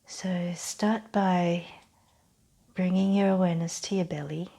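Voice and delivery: calm guided-relaxation voice with long pauses; measured meditation-style instruction; guided breathing exercise. Real, not acted. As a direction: lead them gently through the breath, unhurried.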